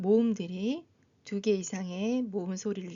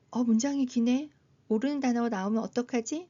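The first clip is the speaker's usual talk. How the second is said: higher, quicker mock worry; worried learner; 3 semitones higher, 3 dB louder, faster than usual. Teacher voicing learner facing a long sentence, mildly worried. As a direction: lightly act a learner fretting at a long sentence.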